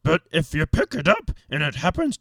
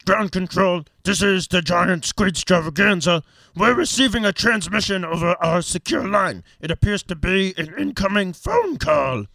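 sci fi communicator. Pretend. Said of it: "It's got a higher production value".

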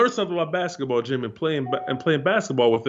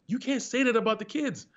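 higher scolding wife voice; wife's voice; 10 semitones higher than usual. Retold or imitated. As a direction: do his wife telling him off. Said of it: "my wife's like".

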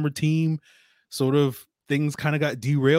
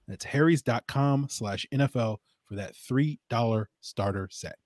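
ad read. Acted. Host reads the Harry's sponsor spot to listeners, as an ad read. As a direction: sell the razors like a host's ad spot.

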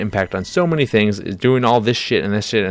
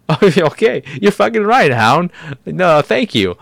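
much higher, louder mock girl voice; mocking Arya; 9 semitones higher, 4 dB louder than usual. Arya brushing off the Hound, high mocking voice. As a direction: ham up a flippant Arya. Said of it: "she's just like".

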